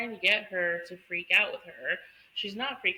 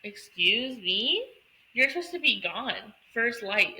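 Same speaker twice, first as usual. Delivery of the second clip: indignant; 3 semitones higher than usual. Retold or imitated.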